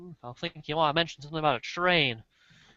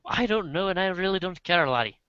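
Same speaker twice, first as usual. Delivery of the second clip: put-on Irish or Scottish accent; 4 semitones higher, 3 dB louder than usual. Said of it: "I changed her accent, didn't I?".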